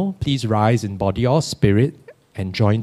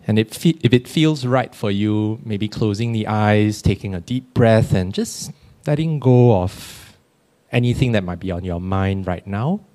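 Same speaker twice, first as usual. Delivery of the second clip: guided meditation. Acted. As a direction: gently guide them to settle. Leads a quiet reflective meditation.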